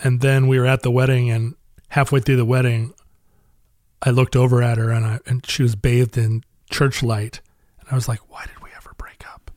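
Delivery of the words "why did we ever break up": put-on whisper, quieter. Retelling what was said to her at a wedding: imitating a whisper. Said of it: "that's why you were whispering?".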